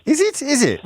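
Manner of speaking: high, surprised question; genuinely taken aback. Real, not acted. Surprised at statistic.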